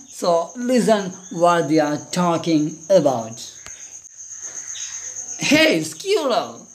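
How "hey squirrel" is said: lightly voiced frog, slow and drawn-out; inviting frog. Frog calls squirrel down to play, lightly acted inviting voice. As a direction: call out slowly in a sing-song invitation.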